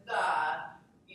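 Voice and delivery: "the" said long and loud with a full vowel; loud overenunciated "the". Shown as a demonstration. Teacher demos an overenunciated "the" for the class. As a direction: stretch out "the" and make it loud. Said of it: "I made it really loud".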